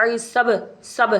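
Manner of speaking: سب said slowly with a bounced final b; echoing qalqala. Shown as a demonstration. Teacher demonstrating qalqala, slow echoing b in سب. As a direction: let the b of سب rebound after closing. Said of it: "اس طرح کی آواز آئے گی".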